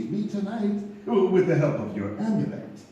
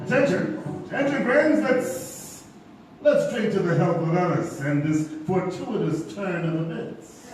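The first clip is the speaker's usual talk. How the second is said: calling a toast. Acted.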